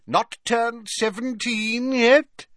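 high, slow, jovial character voice; genial Slughorn. A narrator's reading. Professor greeting his three remaining students, genial. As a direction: draw it out with hearty good humour. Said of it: "said Slughorn genially".

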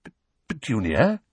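stammered, rising question; timid. Acted. Uncle checking on his shaken wife, timidly. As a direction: stumble on the name, unsure. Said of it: "said Uncle Vernon timidly".

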